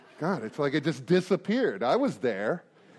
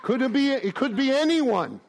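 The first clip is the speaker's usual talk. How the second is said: laughing coy; 6 semitones higher than usual. Real, not acted. Coy about ex-wife.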